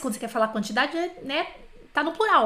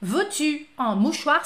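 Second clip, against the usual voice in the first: slow, from a distance; slower than usual. Retold or imitated. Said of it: "fica meio de longe assim".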